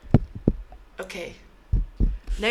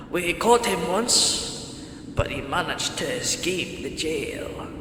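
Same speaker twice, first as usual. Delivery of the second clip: put-on British accent; slower than usual. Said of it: "I'm gonna do a British voice".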